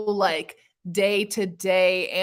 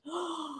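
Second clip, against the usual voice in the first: a quick, soft, startled intake of breath; quiet theatrical gasp; mock gasp; 8 semitones higher, 13 dB quieter than usual. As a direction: gasp as if shocked by a plot twist. Retold reading the sheets scene.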